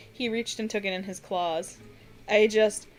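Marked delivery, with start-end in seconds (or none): 2.3-2.9 tearful. Acted. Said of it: "admitted with tears on his face".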